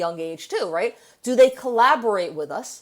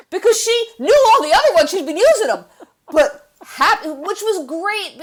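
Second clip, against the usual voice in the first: laughing through the words; 10 semitones higher, 9 dB louder than usual. Real, not acted. Still laughing while explaining.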